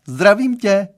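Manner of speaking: put-on mother greets the boy, calling out. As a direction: call a greeting from behind the door.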